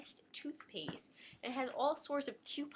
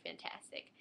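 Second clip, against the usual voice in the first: breathy deadpan fantastic; whispered sarcasm; 6 dB quieter than usual. Retold or imitated. Teen sarcastic when music stops, whispered deadpan. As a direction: murmur it with an eye-roll.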